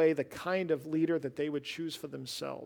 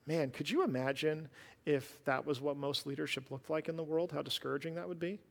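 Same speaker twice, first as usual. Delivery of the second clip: sarcasm. Real, not acted. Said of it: "this is sarcasm".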